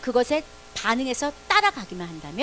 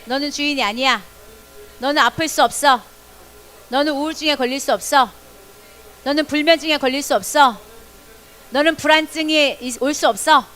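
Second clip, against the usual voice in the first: a loud, firm order to your own body; louder firm command; 5 dB louder than usual. Shown as a demonstration. Pastor repeats the declaration with the class, loud command. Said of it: "다시요".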